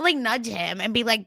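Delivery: ordinary talk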